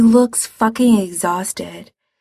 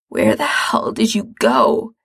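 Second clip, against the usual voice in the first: demanding; 3 semitones higher than usual. Acted. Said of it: "Mikey demands".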